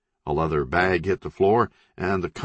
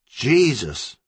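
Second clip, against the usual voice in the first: shocked gasp; 6 semitones higher, 4 dB louder than usual. Acted. Country sees knife through neck.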